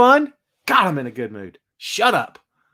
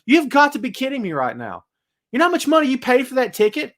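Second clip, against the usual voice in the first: incredulous; 6 semitones higher than usual. Retold or imitated. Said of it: "And I'm like".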